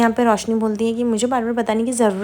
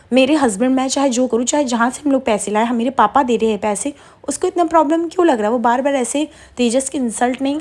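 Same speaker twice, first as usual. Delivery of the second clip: angry retort; 3 semitones higher than usual. Retold or imitated. Roshni's angry quarrel with Saali.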